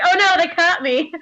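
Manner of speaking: acted alarm in a cute heroine's pitch; mock freak-out. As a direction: play flustered panic. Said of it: "she, like, freaks out".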